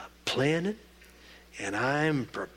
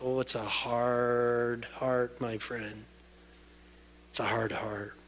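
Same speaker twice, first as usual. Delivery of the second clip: sorrowful hush; 3 semitones lower, 6 dB quieter, slower than usual. Acted. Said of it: "sorrowful aside".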